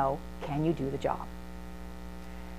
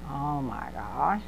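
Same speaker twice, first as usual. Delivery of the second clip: overwhelmed grandma; 6 semitones lower, 8 dB quieter, much slower than usual. Retold or imitated.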